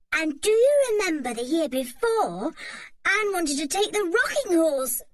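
high, gleeful teasing voice; giggling teasing boy. A narrator's reading. Dick teases Anne about the rocking horse, gleeful. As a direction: tease her again, barely holding a giggle. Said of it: "said Dick with a giggle".

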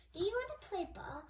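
bright eager neighbor voice. Acted. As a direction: invite him out to play. Neighbors asking Jeremy.

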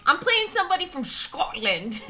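badly faked Scottish accent; mock Scottish accent. Streamer telling a friend about the connection, mock Scottish accent. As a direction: slip into a hammy Scottish accent. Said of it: "I know my accent's really bad".

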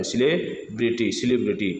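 सेलिब्रिटी beginning with 'si'; British pronunciation. Shown as a demonstration. Teacher repeats British version, सेलिब्रिटी starting 'si'. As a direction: say सेलिब्रिटी as si-LEB-ri-tee. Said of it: "British उच्चारण सेलिब्रिटी होता है".

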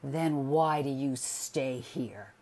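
loud, slow, anguished demand; husband crying out at his wife; cried out. A narrator's reading. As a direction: cry the question at her. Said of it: "he cried".

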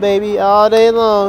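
loud, high hype shout; excited cheer. Real, not acted. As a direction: cheer it at the dice table. Cheering at the craps table.

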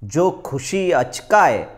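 slow declaimed couplets, each phrase set apart; lilting Gujarati mushaira delivery; ghazal recitation. Acted. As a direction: lift the key word, then let the refrain fall.

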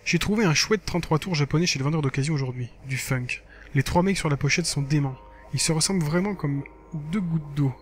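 lively reading of a blog entry; lightly performed text narration; diary read-aloud. Acted. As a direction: read it out like a casual teen diary. Reads game diary aloud.

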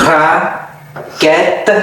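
raquette slowly, in two separated parts; syllable by syllable. Shown as a demonstration. Teacher demonstrates raquette for learners, syllable by syllable. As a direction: break raquette in two with a long pause.

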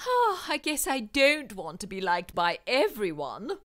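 mild resigned sigh. Acted. Wilfred sighing over his priorities, mildly. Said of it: "he sighed".

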